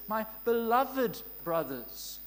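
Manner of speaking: slow, tender address; loving. Retold or imitated. Preacher voicing James tenderly addressing his brothers. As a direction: say it slowly, like you cherish them. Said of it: "notice the love in this".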